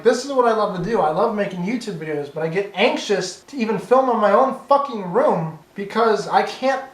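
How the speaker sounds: real rising frustration, swearing for emphasis; worked-up, exasperated rant; getting angry. Real, not acted. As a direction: let yourself get fired up as you vent. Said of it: "I'm getting angry".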